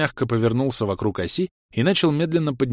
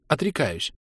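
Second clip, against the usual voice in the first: hoarse exhale; 4 semitones higher, 4 dB quieter than usual. Acted. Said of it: "хрипло выдохнула Кира".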